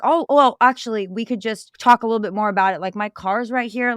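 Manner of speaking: mock the vendor sweet-talking; pushy street vendor. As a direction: vendor pushing her toward his car. Scam vendor keeps pushing.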